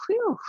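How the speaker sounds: high breathy whew of exhaustion; out of breath whew. Retold or imitated. To the class, imitating being out of breath, a high whew. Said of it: "you might have just got like".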